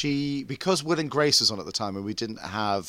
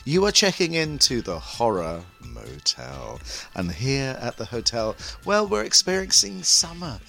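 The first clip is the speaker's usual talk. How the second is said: camp horror-hostess welcome; theatrical drag host voice; campy drag queen; slower than usual. Acted. Campy host persona intro.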